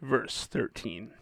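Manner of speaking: slow whisper; whispered aside. Real, not acted. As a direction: breathe the verse number softly. Reading aside before verse.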